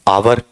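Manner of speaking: "आवर" as learners wrongly say it, ending in r; common mispronunciation. Shown as a demonstration. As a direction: say "आवर" with the final r sounded. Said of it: "आप इसमें गलती क्या करते हैं".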